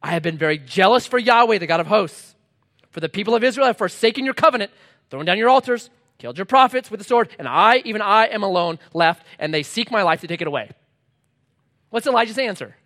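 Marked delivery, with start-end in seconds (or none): 0.0-10.7 insistent complaint. Acted. Acts Elijah repeating his complaint.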